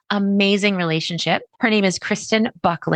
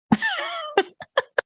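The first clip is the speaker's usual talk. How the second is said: very high, softer little squeal; cutesy squeal; 4 dB quieter than usual. Shown as a demonstration. Owner cooing at her tiny kitten, cutesy high squeal.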